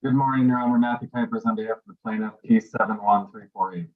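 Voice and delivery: muffled, boomy barrel sound; like talking from inside a barrel. Real, not acted. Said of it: "You sound like you're in a barrel".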